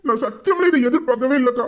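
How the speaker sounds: tearful, voice catching; crying. Acted. Brother confessing to his sister, crying. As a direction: choke up as you confess. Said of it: "சரிடா, அழுவாத".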